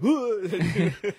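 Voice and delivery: high, loud mock gasp through a laugh; hammed-up startled hoot, laughing. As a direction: play a creature caught by surprise. Voicing the startled spider.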